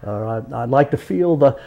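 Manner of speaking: amble along like a Southern porch storyteller; Coswell Timms, Southern accent. Acted. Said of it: "something that Coswell Timms might have done".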